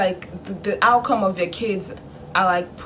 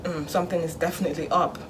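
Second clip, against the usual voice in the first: low, softened musing to oneself; suspicious parent; 3 semitones lower, 6 dB quieter than usual. Acted. Parent sensing the good child is up to something, suspicious. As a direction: imitate a parent quietly smelling trouble. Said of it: "their parents' sense is tingling".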